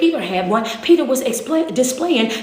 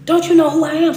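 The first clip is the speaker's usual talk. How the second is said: louder repeat; 4 semitones higher, 5 dB louder, faster than usual. Acted. Repeated rhetorical question, louder.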